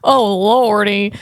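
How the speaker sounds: slow, mock Southern accent. Vlogger mocking his failed British attempt, Southern accent. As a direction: drawl it like a hammy Southerner. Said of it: "that's a Southern act".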